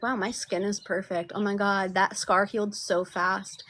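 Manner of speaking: playful self-praise, savoring it; delighted affirmation. Shown as a demonstration. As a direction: gush over your own skin, slow at the end. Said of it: "playing and being like".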